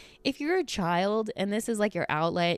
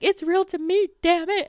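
loud, high mock outburst; emotional fan imitation; 12 semitones higher, 6 dB louder than usual. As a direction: mimic an overwrought fan crying out. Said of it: "he's getting emotional and he's like".

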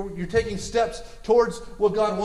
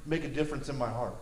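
indifferent, sinking lower and softer; apathetic; 3 semitones lower, 3 dB quieter than usual. Acted. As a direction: act out not caring.

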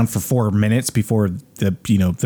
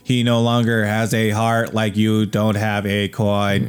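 monotone robot voice; slower than usual. Pretend. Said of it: "they sound very mon-, monotone".

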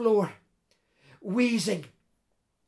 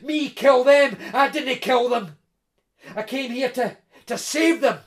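loud, raised-pitch protest; heated self-defence; indignant denial; 5 semitones higher, 8 dB louder than usual. A narrator's reading. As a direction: throw the accusation back, outraged. Intruder denies the killing.

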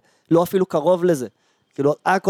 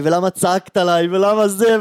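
mock yelling; 4 semitones higher, 3 dB louder, slower than usual. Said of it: "התחלתי לצעוק על הבחורה".

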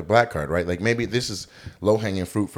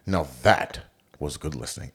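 mock Doctor Edwards; 7 semitones lower, 6 dB quieter than usual. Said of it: "Is that how he sounds?".

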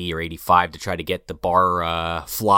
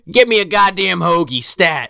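mock gruff order; 9 semitones higher, 6 dB louder than usual.

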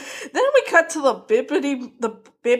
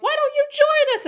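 much higher sing-song invitation; higher-pitched mock invitation; mock cult invite. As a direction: lightly mimic a creepy friendly welcome. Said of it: "they'll be like".

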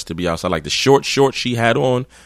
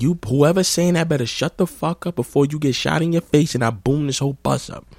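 higher mock threat; imitating her threat; 7 semitones higher than usual. Girl threatens the bus again, higher mock voice. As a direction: retell her threat in a put-on voice. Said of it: "So she's like".

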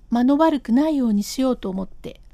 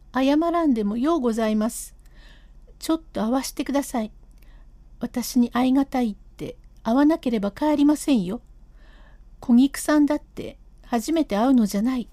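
lightly raised voice of an insistent wife; stubborn wife; faster than usual. Acted. Wife refusing to leave without seeing Kogiku, lightly raised stubborn voice. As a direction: dig in your heels and refuse to leave.

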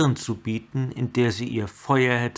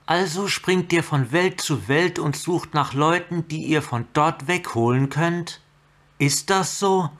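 mocking; 6 semitones higher than usual. Chandra mocking challenge.

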